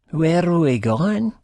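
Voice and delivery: tipsy, dragged-out question; drunken slur. A narrator's reading. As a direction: slur it out slowly, high-pitched. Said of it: "she slurs once in a while".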